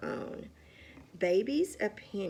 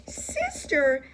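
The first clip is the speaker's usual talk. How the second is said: loud, high call for her sister; 6 semitones higher, 7 dB louder than usual. A narrator's reading. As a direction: yell for help down the hall. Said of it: "shouted Baby".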